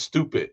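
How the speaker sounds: "stupid" without a voiced D ending; dropped final D. Shown as a demonstration. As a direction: cut the D off "stupid". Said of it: "doesn't put the D on the end".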